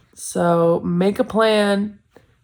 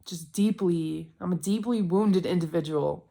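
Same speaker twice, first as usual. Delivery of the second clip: mock sad confession; 2 semitones lower, 9 dB quieter than usual. Real, not acted. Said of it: "this sad inside".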